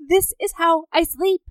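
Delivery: lightly voiced shrugging guy; mock deadpan man. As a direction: rattle it off as if obvious. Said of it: "And he's like".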